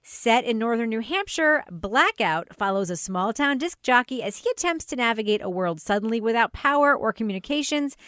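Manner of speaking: measured podcast presenter read; scripted intro read. Acted. Host introducing the drama under review, scripted presenter read. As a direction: present the show from a script, phrase by phrase.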